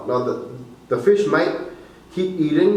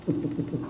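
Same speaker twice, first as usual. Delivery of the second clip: short unvoiced grunt from the throat; 10 dB quieter than usual. Shown as a demonstration. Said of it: "it should sound like this".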